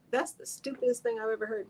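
high mock scorn; scornful inner voice. Host voicing her face's scorn, mocking disbelief. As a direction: sneer it like a face would. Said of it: "So if my face says".

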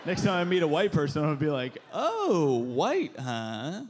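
ordinary delivery

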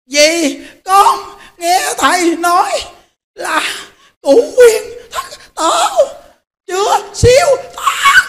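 put-on high, slow, laughing old woman's voice; slow high elderly voice, half laughing, half crying; old woman's vow. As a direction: mimic the old woman's tearful determination. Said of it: "Nói rằng".

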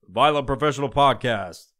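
lightly voiced radio DJ intro; a hint of phony podcast announcer; fake radio voice. Shown as a demonstration. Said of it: "you just do this fucking fake-ass voice".

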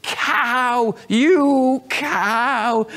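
high, loud shouted insult; angry shout. Retold or imitated. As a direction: let the hatred burst out. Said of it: "He shouted".

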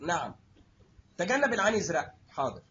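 low, obedient "حاضر"; a dutiful yes, pitched low; meek anesthetist reply. Retold or imitated. Anesthetist replying to the surgeon, low and obedient.

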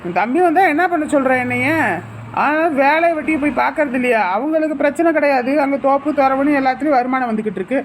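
brusque, impatient husband; curt and snappish. Acted. Husband grumbling at his wife about work and money, curt. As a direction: snap irritably at your wife. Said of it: "என்னங்க இப்படி சுருக்கு சுருக்குன்னு பேசுறீங்க".

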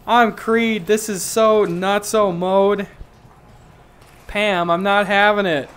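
hammed-up wacky Creed; mock Creed. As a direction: play him loopy and drawn out. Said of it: "Creed is just like".

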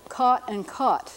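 American merged vowel, caught sounding like cot; caught-cot merger. Shown as a demonstration. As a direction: Caught and caught both with the same "ah" vowel. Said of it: "two words that sound the same".

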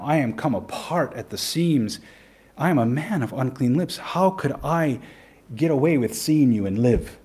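confession prayer. Retold or imitated. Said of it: "pronounces his confession to the Lord in prayer".

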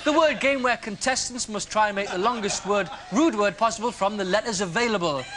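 mock quiz host welcoming the contestant; game show host parody. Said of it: "I'm Richard Slightly".

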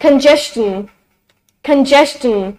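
congestion said as con-JES-chun; careful model of congestion with a ch after the s; chun ending. Shown as a demonstration. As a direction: end congestion in "chun", not "shun". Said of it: "तो वो चं की sound देगा".

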